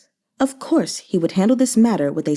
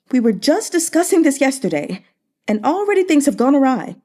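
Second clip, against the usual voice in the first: lightly raised voice of a worried magistrate; grave official; 6 semitones higher than usual. A narrator's reading. Magistrate Zhou Gui voicing grave worry to his colleagues, lightly higher. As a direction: press the concern, voice pitched up. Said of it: "his tone was grave".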